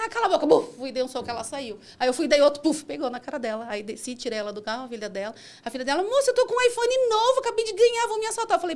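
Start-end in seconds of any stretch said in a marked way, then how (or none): 0.0-0.5 high, loud retold retort; angry silencing. Driver silences the screaming passenger, angry. 6.0-8.6 very high, loud mock whine; pleading daughter. Daughter pleads she will be robbed of her new iPhone, whining.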